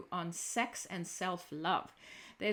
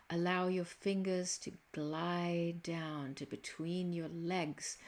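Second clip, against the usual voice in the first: slow sexy voice; 2 semitones lower than usual. Pretend. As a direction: read it slow and seductive, almost murmuring. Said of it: "only in a really slow, sexy voice".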